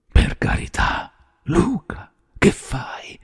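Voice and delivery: breathless, terrified plea; frightened, half-voiced imploring; begging. A narrator's reading. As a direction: plead for your life, voice giving way. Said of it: "Prese a scongiurar Paroni".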